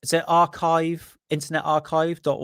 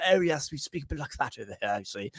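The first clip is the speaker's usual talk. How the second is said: put-on quick posh Oxford English accent; 8 dB quieter, faster than usual. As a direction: play up a mock upper-class Oxford English accent. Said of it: "I just wanna sound posh 'cause it's from Oxford".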